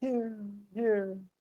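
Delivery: fading echo.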